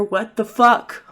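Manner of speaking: acted shock, not yet shouting; stunned disbelief. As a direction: draw the curse out in disbelief. First take of escalating shocked outburst.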